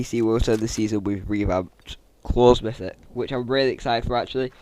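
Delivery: flat monotone, no enthusiasm. Real, not acted. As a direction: say it dead flat, unexcited. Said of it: "I've said that in such a monotone voice".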